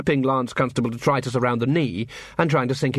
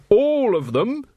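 high, pressing menace; officer menacing the dwarfs to drop every weapon; 10 semitones higher, 4 dB louder, slower than usual. A narrator's reading. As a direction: make it a threat. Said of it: "said Carrot menacingly".

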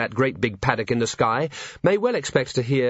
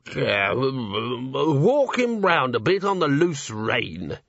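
slow rough horse doctor; 3 semitones higher, much slower than usual. Acted. Donut Jimmy advises.

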